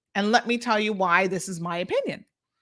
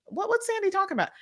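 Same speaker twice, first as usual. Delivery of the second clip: confused listener; 10 semitones higher, 3 dB quieter, faster than usual. Retold or imitated. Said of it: "you're like".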